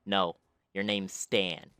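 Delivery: put-on slow, drawn-out odd kid voice; a light imitation of the strange boy; odd kid's voice. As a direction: slowly mimic the oddball son. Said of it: "The kid's voice was literally like".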